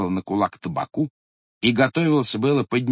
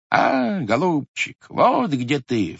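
exclamation; 3 semitones higher, slower than usual. Acted. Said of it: "вскрикнул дед".

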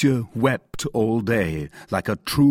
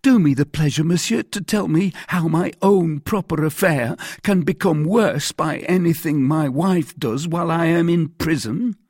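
high, louder, agitated pleading; agitated mercer; 7 semitones higher, 4 dB louder than usual. A narrator's reading. Mercer asking the commissary to explain, agitated. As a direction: protest anxiously in a raised pitch. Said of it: "said the agitated mercer".

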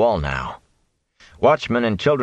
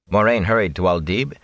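ordinary delivery

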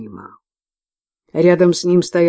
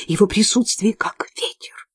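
spooky whisper; 4 semitones higher than usual. A narrator's reading. Nun describes demon.

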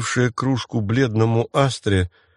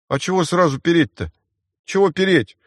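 ершисто; 7 semitones higher than usual. Acted. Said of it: "Заершился Генхард".

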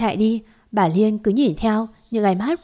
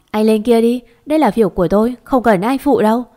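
annoyed; 4 dB louder than usual. Acted. Cô gái đuổi người lạ đi.

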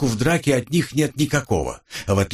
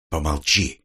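commanding; 7 semitones lower than usual. A narrator's reading. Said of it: "велел Дэн".

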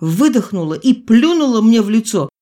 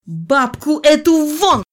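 much higher, slow furious shout; doctor orders the grandmother out, shouting higher; 9 semitones higher, 3 dB louder, slower than usual. A narrator's reading. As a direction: throw her out at the top of the voice. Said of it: "закричал я".

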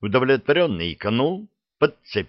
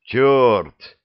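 loud startled curse; a loud jolt of alarm; alarmed oath; 3 semitones higher, 5 dB louder than usual. A narrator's reading. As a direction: blurt it out in alarm. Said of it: "всполошился Алёша".

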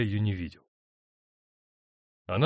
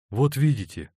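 plaintive; 4 semitones higher, 6 dB louder than usual. A narrator's reading. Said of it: "сказал он жалобно".

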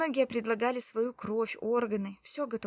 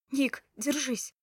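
urgent plea; 4 semitones higher, 5 dB louder, slower than usual. A narrator's reading. Wife begs wounded husband.

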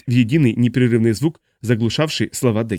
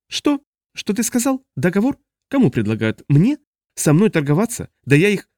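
much higher, squawking outrage; a higher, indignant alien squeal; outraged disbelief; 8 semitones higher than usual. A narrator's reading. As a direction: sputter in indignant shock. Smoky outraged at the deal.

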